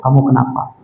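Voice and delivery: low, gentle question; tender concern. Acted. Husband hugging his crying wife, gently concerned. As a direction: comfort as if pulling into a hug. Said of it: "diraih, dirangkul".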